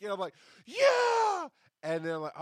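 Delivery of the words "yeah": high, loud mock "Yeah"; mock cheer. Humoring Terry's hype, high mock cheer. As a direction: cheer back with fake enthusiasm.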